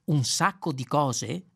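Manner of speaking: 'Un sacco di cose' slowed right down, rising in disbelief; astonished repeat. Acted. Ford repeating Zaphod's words, slow stunned question. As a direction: echo 'Un sacco di cose' as if you can't believe it. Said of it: "ripeté Ford stupito".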